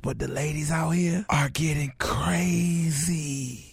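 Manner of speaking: slow scared whisper; whispered fear. Pretend. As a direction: whisper it like someone might hear. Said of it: "I'm whispering 'cause I'm scared".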